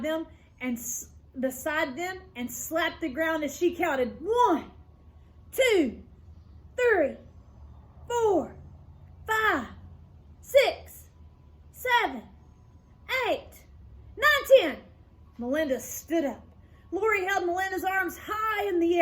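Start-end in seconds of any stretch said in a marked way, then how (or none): 4.2-14.8 rising, louder and higher count; excited count. A narrator's reading. Lori counts out Jeff like a referee.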